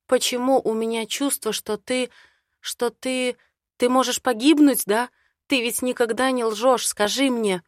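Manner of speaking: pleading with him to tell the truth; anxious heroine. Acted. Heroine begging her man not to lie, anxious.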